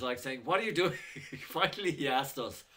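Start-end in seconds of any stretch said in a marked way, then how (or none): 0.4-1.0 higher, louder mock-baffled question; retold baffled outburst; retold bafflement. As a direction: imitate a baffled man demanding an explanation. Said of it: "he was so baffled".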